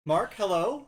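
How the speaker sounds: high, loud, laughing disbelief; squealing excited. Real, not acted. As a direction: greet him, half laughing, half crying. Streamers greet surprise raider.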